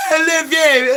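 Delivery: high, moaning declaration of love; mock lovestruck. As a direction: swoon it out, hammed up. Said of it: "you're like".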